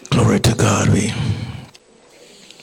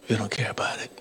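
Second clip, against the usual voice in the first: very soft, solemn preaching; hushed exhortation; 12 dB quieter than usual. Real, not acted. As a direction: drop to a near-whisper with long pauses. Preacher hushes to drive point home.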